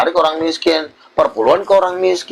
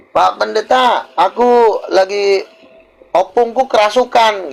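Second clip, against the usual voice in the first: higher, anxious begging voice; pleading caller; 6 semitones higher than usual. Retold or imitated. A churchgoer begs the pastor about possessed grandpa, high and anxious. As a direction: beg the pastor to come for grandpa.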